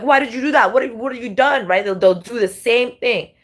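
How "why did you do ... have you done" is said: a high, put-on echo of "Why did you do that?"; mock copycat outrage. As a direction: parrot the accusation in a whiny, fake voice. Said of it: "And they'll be like".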